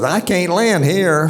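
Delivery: mildly acted, firm pilot refusal; Neil Armstrong quote. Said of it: "so Neil says".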